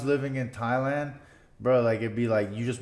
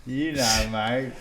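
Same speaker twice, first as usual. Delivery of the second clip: put-on Aussie accent, short and matey; playful Australian imitation; much slower than usual. Shown as a demonstration. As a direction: toss it off in a mock Australian accent. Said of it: "Let's hear the Australian accent".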